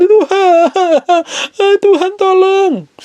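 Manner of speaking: very high, drawn-out wailing plea; mock crying. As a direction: imitate someone bawling to God for help. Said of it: "langsung nangis-nangis sama Tuhan". (rengekan tangis minta tolong, dilebih-lebihkan)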